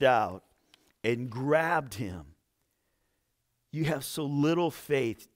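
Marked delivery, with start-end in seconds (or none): 3.7-5.3 gentle rebuke. A narrator's reading. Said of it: "Jesus said".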